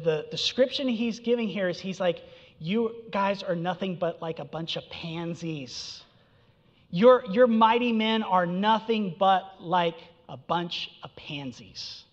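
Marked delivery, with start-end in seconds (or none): 2.6-12.0 mocking. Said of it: "so he's mocking them here".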